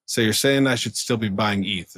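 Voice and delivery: laughing, half-shouted joke; laughing quip. Retold or imitated. Friend's joking reply.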